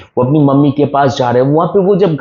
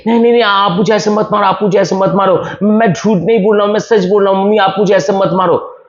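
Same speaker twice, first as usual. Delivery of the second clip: higher, fast, begging mother to stop; pleading cry; 6 semitones higher, much faster than usual. Retold or imitated. A dreaming boy begging his mother not to hit him, frantic plea. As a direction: plead in panic, quickly. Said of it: "sudden चिल्लाया".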